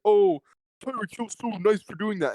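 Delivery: high, sarcastic "oh" then mock praise. Mocking the double standard for Tyreek, high sarcastic praise. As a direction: sneer it like a gushing fan. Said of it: "and it's like".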